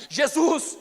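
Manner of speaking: high loud call; shouting Jesus. Retold or imitated. Blind Bartimaeus calls to Jesus, loud shout. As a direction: call out across the crowd. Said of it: "ele começou a gritar".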